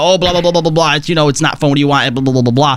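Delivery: low, mocking blah-blah; dismissive mimicry. Host paraphrasing a critic of Savage raids, dismissive mimicry. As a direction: rattle it off as someone else's tired rant.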